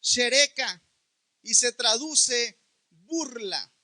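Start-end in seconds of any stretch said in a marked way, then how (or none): 0.0-0.8 "shereka" said as a Hebrew word, stress on RE; "shereka" with a Hebrew accent; Hebrew pronunciation. Shown as a demonstration. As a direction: sound out "shereka" carefully, sh-e-RE-ka. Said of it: "se pronuncia".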